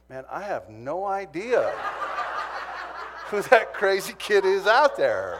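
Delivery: a big embarrassed laugh through the words; laughing denial. Retold or imitated. Brother laughs, denies knowing him.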